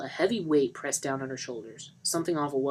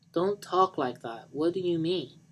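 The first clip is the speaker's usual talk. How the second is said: worried Johnny; 4 semitones higher, slower than usual. Acted. Johnny alarmed, slow, higher.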